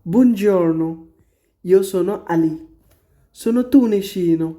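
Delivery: lightly voiced Ali greeting; teacher reading Ali's introduction; reading dialogue. Shown as a demonstration. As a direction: read Ali's line as a textbook dialogue. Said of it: "Ali বলতেছে".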